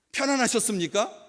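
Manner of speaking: high, loud polite inquiry; loud greeting. Acted. Preacher demonstrating a startling morning greeting, loud and high. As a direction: call out the morning greeting too loudly. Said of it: "이렇게 큰 소리로 말하는 거".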